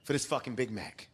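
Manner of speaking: lightly hammed Tom Segura craving a burger. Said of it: "Tom Segura voice".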